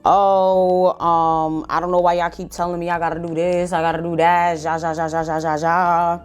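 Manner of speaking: lightly voiced lazy brother, dismissive; mocking brother. Mocking brother's whiny excuse.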